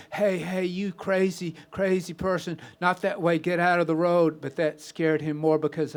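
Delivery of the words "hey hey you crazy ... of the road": mild retold yell, higher; yelling warning. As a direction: call out a warning to the stranger. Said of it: "and I yelled".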